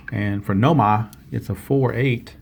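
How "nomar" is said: put-on "Noma" in a rough New England accent, no r at the end; attempted New England accent; lightly put-on New England "Noma". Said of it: "not very good with the New England accent".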